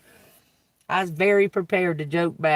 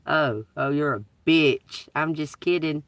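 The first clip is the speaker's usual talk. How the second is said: sarcastic taunt; 3 semitones lower than usual. Acted. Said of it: "it's the way I said it".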